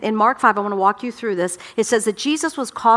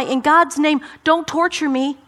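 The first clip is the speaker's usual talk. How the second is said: pleading cry; 5 semitones higher, slower than usual. Acted. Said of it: "he says to Jesus".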